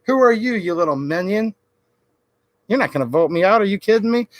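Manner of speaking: swagger it, chest puffed out; puffed-up bravado. Retold or imitated. Senators brushing off a voter, with mock bravado. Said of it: "they puff up their chest and say".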